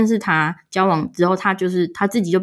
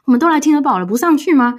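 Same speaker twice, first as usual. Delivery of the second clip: anxious pleading; 5 semitones higher, faster than usual. Retold or imitated. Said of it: "我那时候很紧张".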